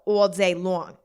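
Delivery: slipping into a weird East Coast accent. Real, not acted. Host catching herself mid-episode in a weird East Coast accent. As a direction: draw the vowels out East Coast style. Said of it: "weird East Coast accent".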